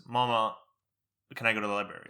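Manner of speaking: "Mama" with an English-tinged Arabic accent; lightly accented Arabic word in English. Shown as a demonstration. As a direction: let a slight accent land on Arabic "Mama". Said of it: "that weird accent on the Arabic".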